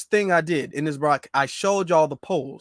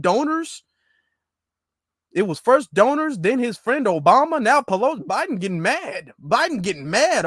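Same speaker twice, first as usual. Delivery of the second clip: excited listing; 4 semitones higher than usual. Real, not acted. Listing rising outrage, higher pitch.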